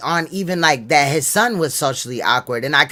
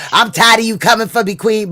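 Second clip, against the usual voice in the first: imitating the fake Chakra; 5 semitones higher, 4 dB louder than usual. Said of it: "sounds just like Shaka Utmost".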